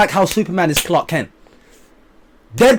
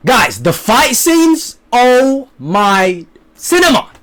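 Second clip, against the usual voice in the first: slow, drawn-out awe; awed gushing; 5 semitones higher, much slower than usual. Real, not acted. Vlogger raving to his viewers, slow awestruck gush. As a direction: savour every word, overwhelmed by how good it was. Raving about the fight scenes.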